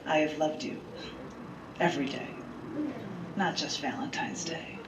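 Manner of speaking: softly read, sincere note to her husband; tender recitation of a handwritten note; reading a love note. Acted. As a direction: read it gently, meaning every word. Reads her own heartfelt note aloud.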